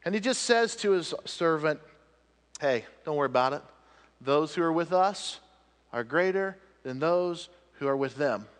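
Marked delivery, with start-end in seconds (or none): 2.6-8.5 understated, easy reassurance; calm. Acted. Elisha reassures his frightened servant, calm. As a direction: reassure with unruffled confidence. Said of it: "Elisha just said calmly".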